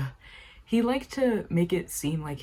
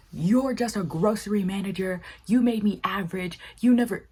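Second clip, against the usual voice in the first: raised, louder mock yell at his dad; retold yelling; 4 semitones higher, 4 dB louder than usual. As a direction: yell it at your father, half-acted. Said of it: "he goes yelling at his father".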